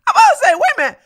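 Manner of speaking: high, loud laughing exclamations; laughing shout. Real, not acted. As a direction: laugh out loud at your own mix-up. Laughing at own mistake.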